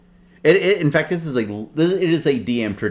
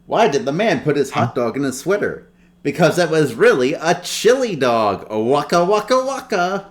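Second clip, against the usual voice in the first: higher, louder goofy bear comic voice ending in a high waka waka; Fozzie Bear; 6 semitones higher, 4 dB louder than usual. Acted. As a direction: land the pun like a proud stand-up bear. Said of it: "you're gonna hear another Fozzie joke".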